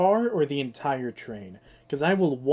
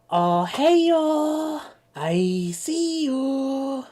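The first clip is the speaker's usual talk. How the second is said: much higher, louder, drawn-out grin voice; Stephen Kark voice; 10 semitones higher, 6 dB louder, much slower than usual. Shown as a demonstration. Streamer demoing the Stephen Kark voice, grinning and loud. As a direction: say it through a big smile. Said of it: "you gotta do a smile".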